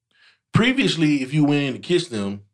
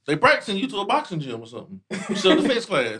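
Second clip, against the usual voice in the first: laughing; 4 semitones higher than usual. Real, not acted. Joking while laughing.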